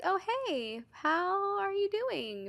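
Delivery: high, drawn-out mock greeting; friendly greeting. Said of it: "you'll be like".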